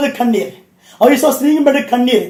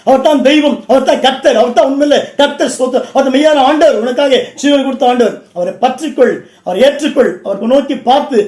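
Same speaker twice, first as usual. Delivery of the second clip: full-force Tamil sermon delivery; impassioned preacher rousing a congregation; fervent preaching. Real, not acted. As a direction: preach it out in ringing, driving phrases.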